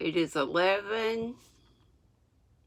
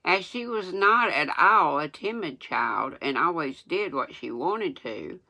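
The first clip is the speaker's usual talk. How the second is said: reading without teeth in; gummy toothless speech. Real, not acted. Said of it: "I'm gonna sound crazy reading without my teeth".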